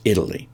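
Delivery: Italy with a quick tapped T; flapped T. Shown as a demonstration. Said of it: "that pronunciation of the T in Italy is a flap".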